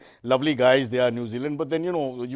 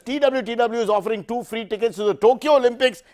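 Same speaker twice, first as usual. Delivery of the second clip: higher sing-song promo read; fake announcer hype; 7 semitones higher, 3 dB louder than usual. Host fake-announcing Olympic tickets, hyped promo. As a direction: hype the prize like a game-show host.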